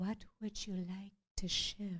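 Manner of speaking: very sweet spiritual-healer tone. Retelling a visit to a healer, imitating the healer's voice. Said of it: "the real healer's voice".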